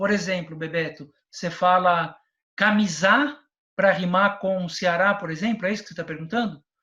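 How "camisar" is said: camisar with final syllable -sar stressed. Explaining shifting stress to make a rhyme fit, camisar stressed on last syllable. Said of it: "mudar sílaba tônica para que uma rima se encaixe".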